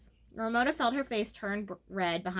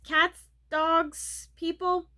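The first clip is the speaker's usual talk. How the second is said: flustered repeat; 7 semitones higher, 5 dB louder, much slower than usual. A narrator's reading. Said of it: "she repeated, trying to start and failing".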